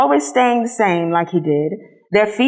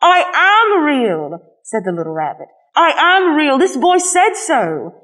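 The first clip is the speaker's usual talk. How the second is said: near tears; 7 semitones higher than usual. A narrator's reading. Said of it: "And he began to cry".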